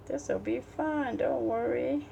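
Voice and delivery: high, slow mock cheer; sing-song sarcasm, drawn out; sarcastic cheerful. Mocks her own hand problems.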